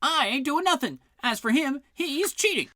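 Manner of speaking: high, loud shouting guards; angry quarrel. Acted. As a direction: fight over every move. Guards quarrelling over the game.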